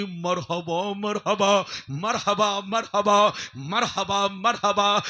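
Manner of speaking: loud, drawn-out heavenly greeting; swelling loud chant of welcome; ringing welcome. Acted.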